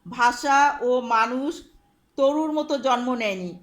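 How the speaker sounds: loud, slow reading from the textbook; reading aloud. Shown as a demonstration. Teacher reads the textbook line aloud to students, loud and slow. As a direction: read the line out loud and slowly to the class. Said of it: "দ্বিতীয় লাইনে দেখো".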